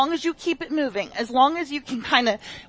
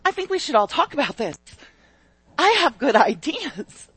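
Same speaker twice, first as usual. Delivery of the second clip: eager Peter. Retold or imitated. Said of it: "And Peter's like".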